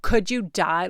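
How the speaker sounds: put-on loud, gushing teen girl in a store; mock valley girl. Mocking a teen girl at Claire's, gushing loudly. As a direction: ham up the shopping-girl gush. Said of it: "she kept talking like that".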